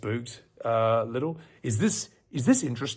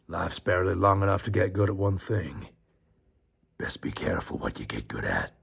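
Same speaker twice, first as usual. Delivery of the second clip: Matthew McConaughey; 4 semitones lower than usual. Retold or imitated. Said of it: "what Matthew McConaughey said".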